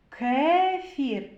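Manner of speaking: "Кефір" drawn out, opening sound brought out; sounding out first sound. Shown as a demonstration. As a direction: say "Кефір" slowly for sound analysis. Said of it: "Перший звук". («Кефір» протяжно, з виділенням першого звука)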